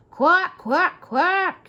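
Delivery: loud, high mocking duck quacks. A narrator's reading. Donald interrupting Duck's boasting with loud, high quacks. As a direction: quack right over him. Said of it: "interrupted Donald".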